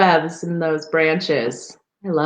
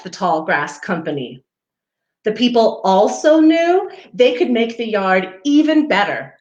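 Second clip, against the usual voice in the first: gentle storybook read-aloud; reading to children; 3 semitones higher than usual. Acted. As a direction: read it like a picture book for little ones. Reading picture book to children.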